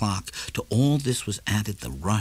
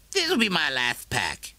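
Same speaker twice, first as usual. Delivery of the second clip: higher, slow, grinning promise; Morrison, grinning; 6 semitones higher than usual. A narrator's reading. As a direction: promise with a broad smile. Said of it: "Then he smiled broadly".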